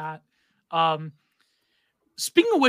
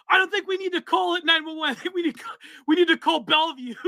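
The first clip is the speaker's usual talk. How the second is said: higher, laughing announcer quip; heel announcer; 8 semitones higher, faster than usual. Retold or imitated. Retelling John House's shouted quip at ringside. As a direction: deliver the joke like a gleeful commentator. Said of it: "And he goes".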